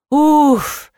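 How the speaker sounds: puffed exhale. A narrator's reading. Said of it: "выдохнул Дегтярев".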